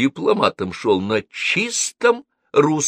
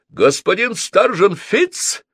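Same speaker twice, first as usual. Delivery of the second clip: grandma shouting; 10 semitones higher, 4 dB louder, slower than usual. A narrator's reading. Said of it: "крикнула бабушка".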